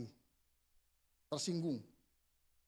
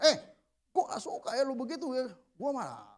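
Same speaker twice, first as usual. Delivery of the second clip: higher, mildly confrontational complaint; wrong angry tone; 5 semitones higher than usual. Shown as a demonstration. Showing how not to confront a subordinate, mock angry tone. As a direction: demonstrate a heated tone to avoid. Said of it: "Tapi gitu nadanya, jangan".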